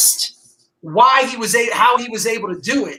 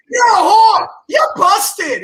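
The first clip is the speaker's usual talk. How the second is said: high, loud hammed-up yell; mock Paulie rant; 10 semitones higher, 5 dB louder, much slower than usual. Host quoting Paulie's outburst at his sister, mock yell. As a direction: bellow like a drunk brother.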